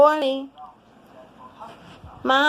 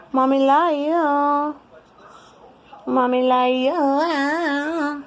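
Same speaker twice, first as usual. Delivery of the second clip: tender coo; 4 semitones higher, slower than usual. Real, not acted. Mother cooing to pet.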